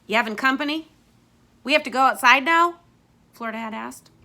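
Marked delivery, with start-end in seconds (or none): 0.1-2.8 put-on wary girl voice. Florida questions the hosts.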